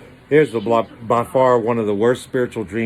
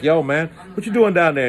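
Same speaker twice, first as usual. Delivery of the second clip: mild playful call; 6 semitones higher than usual. Pretend. Jesus calling to Peter.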